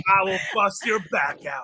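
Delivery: hammy brute yelling; barbarian shout. Retold or imitated. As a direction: bellow it like a villain. Bane impression riff.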